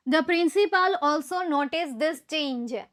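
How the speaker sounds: very slow, word by word; slow dictation. Shown as a demonstration. Teacher dictating sentence to students, slow. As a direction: read it slowly for the class to write. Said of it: "તો this change એ object છે".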